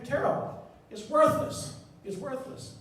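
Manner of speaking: high, scornful "worthless"; scornful dismissal. Acted. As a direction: sneer at the bad slide. Mocking a bad slide.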